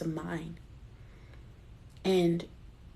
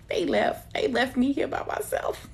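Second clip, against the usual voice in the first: mock dismay; 7 semitones higher than usual. Real, not acted. Mock dismay, daughters left.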